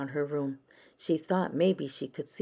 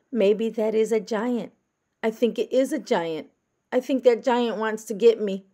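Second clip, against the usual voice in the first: put-on high, louder child voice; a small girl talking herself into a scare; little girl voice; 7 semitones higher, 7 dB louder than usual. A narrator's reading. Francis imagines a giant in the dark, high child voice.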